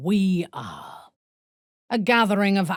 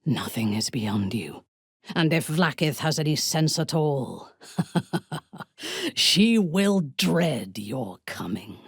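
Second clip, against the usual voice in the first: gleeful whisper into laugh. Acted. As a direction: relish it, then laugh.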